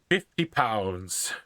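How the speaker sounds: put-on slow Irish-accented priest; name the price slowly in an Irish accent. Irish priest names his sum to the lord, slow Irish accent. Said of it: "in a very Irish accent".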